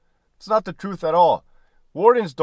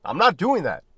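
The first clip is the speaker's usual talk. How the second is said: a louder, higher flat "No,"; retold refusal, pushed up a notch; firm refusal; 5 semitones higher, 5 dB louder than usual. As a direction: shut them down with one word. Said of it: "I would tell them".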